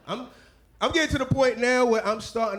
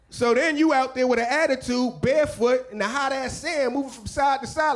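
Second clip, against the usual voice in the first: usual speaking voice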